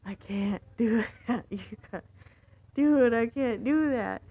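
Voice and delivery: retold protest building to a loud cry; exasperated retort rising in pitch. Arguing back at pushy passenger.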